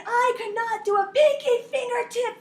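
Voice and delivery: a swimmer screaming in triumph at the finish line; triumphant scream. Retold or imitated. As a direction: yell it out as you hit the wall. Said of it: "and I screamed".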